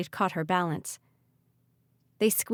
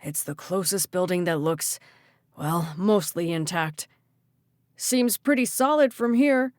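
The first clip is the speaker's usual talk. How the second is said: shouting. Acted. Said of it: "Archer shouted".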